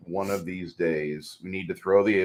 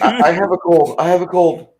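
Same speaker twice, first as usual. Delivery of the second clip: raised, louder whiny sick voice; imitating a sniffly sick friend, higher; mock sick whine; 10 semitones higher, 8 dB louder than usual. Host's friend, mocking him: whiny sick voice. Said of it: "Mac's over there saying".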